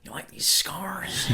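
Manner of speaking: slow, drawn-out movie villain impression; Joker. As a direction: draw it out like a sinister film villain.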